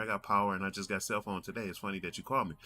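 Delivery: lightly voiced, upbeat uncle on the phone; a hint of an easygoing uncle; uncle's tone. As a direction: imitate your uncle taking it in stride. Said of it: "The tone I'm giving you".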